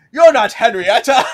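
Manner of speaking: high, loud hammy letdown; disappointed pirate ghost. Retold or imitated. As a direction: declare it with theatrical dismay. Ghost realizes wrong girl.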